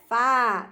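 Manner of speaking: "fá" drawn out as the strong syllable; stressed syllable. Shown as a demonstration. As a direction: stretch "fá" long and firm. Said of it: "A mais forte é".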